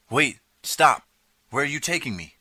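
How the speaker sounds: high, loud panicked shout; alarmed cry. A narrator's reading. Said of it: "I cried".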